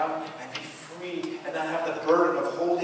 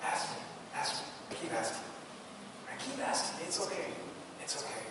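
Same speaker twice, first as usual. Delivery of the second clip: God inviting, tender. Pretend. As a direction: coax him gently to keep asking. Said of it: "It's almost like this".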